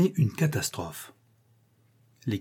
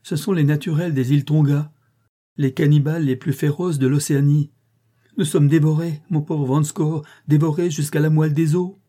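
panicked despair; 5 semitones higher, 4 dB louder than usual. Acted. Captain panics before cannibals.

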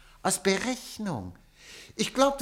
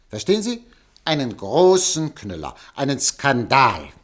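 rising excitement; 6 dB louder than usual. Acted. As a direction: whip yourself up over the scoop. Director demands a sensational scoop. (steigende Begeisterung, immer lauter)

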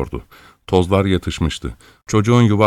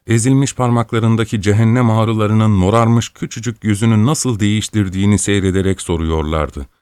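plain reading voice

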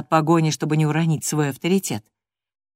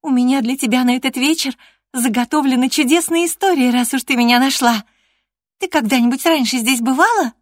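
put-on much higher, eager girlish chatter; lively young girl; 9 semitones higher, 6 dB louder than usual. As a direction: bubble over with stories to tell. Young girl Catherine speaking.

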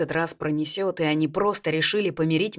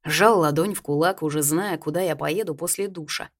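ordinary delivery

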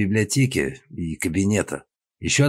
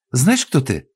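tearful anger; 8 semitones higher, 6 dB louder, slower than usual. A narrator's reading. Kira quarrelling with Gleb.

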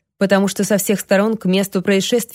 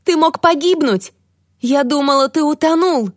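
high, angry shouting; furious yell; 7 semitones higher than usual. Acted. Toni keeps yelling at Billy, high angry shout. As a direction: scold him with relief and rage. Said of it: "заорала она".

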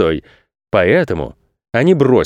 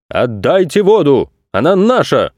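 shouting; 3 semitones higher than usual. Acted. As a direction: yell it out as an order. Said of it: "закричал". (громко кричать)

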